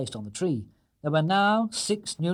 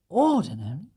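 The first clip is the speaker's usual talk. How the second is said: incredulous rising question, louder; can't believe it's ordinary; surprised dad, rising; exclaiming; 4 semitones higher, 5 dB louder than usual. Acted. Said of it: "exclaimed Mister Brown".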